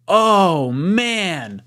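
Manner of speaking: real amused groan into laughter. Real, not acted. Reacts to daylight savings joke.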